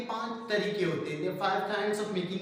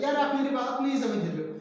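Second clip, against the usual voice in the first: raised, louder annoyed complaint; angry rising intonation; 5 semitones higher, 5 dB louder than usual. Shown as a demonstration. Teacher acts out a frustrated speaker to show rising intonation, angry. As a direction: protest angrily, pitch pushed up. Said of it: "मैं अगर गुस्से से कहूँ".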